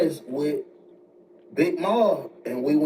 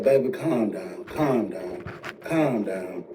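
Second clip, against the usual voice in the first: lower, calming repetition; soothing mother; 4 semitones lower, slower than usual. Retold or imitated. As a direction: imitate a mother settling her son down. Mother soothing her agitated son.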